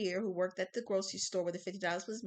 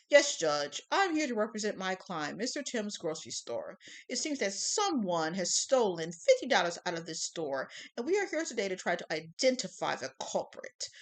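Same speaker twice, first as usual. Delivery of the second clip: prosecutor voice; 7 dB louder than usual. Acted. Prosecutor's opening statement.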